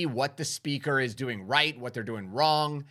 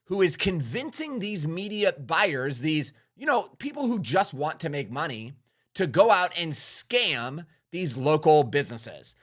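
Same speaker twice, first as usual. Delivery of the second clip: appalled realization; 3 semitones higher than usual. Retold or imitated. Speaker recalling his reaction to a scammy webinar host, appalled. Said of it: "I was like".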